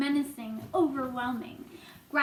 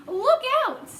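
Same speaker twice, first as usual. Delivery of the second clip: high, loud warning cry; urgent shout; cried out; 9 semitones higher, 7 dB louder than usual. Acted. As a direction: yell a warning to a friend. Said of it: "cried James".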